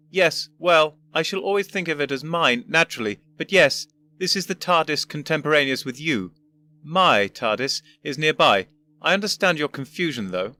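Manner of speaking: put-on a condescending old professor; pompous old gentleman. Voices the first Doctor.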